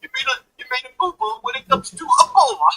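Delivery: high, whiny mock simpering voice; mocking spineless Republicans. Commentator mocking Republicans, high simpering voice. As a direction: pipe up in a high simpering whine. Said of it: "spineless maga Republicans who are like".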